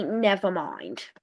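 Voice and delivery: low, dropping "never mind"; acted retraction. Government retracts in acted dialogue.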